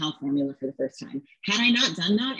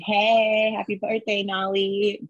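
drawn-out, higher birthday greeting; birthday shout-out; 3 semitones higher, slower than usual. Real, not acted. Mom giving daughter a birthday shout-out, calling it out higher. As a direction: sing out a happy hello to your daughter.

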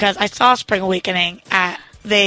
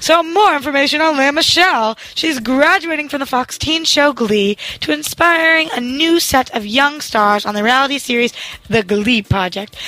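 higher, bright news-anchor read; newscaster voice; 3 semitones higher than usual. Shown as a demonstration. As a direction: deliver it like a TV anchor. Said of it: "I'll try to have more of a newscaster voice".

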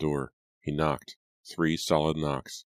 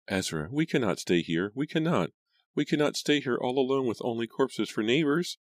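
high-pitched tearful pleading; weeping; 9 semitones higher than usual. A narrator's reading.

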